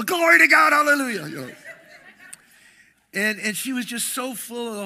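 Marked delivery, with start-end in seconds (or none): 0.0-1.3 high, loud rapturous praise; ecstatic praise. Retold or imitated. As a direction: cry out, overcome with joy. Girl filled with the Spirit.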